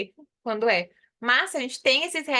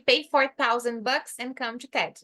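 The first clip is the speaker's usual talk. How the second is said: slow repeat; slower than usual. Shown as a demonstration. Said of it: "Então, aqui".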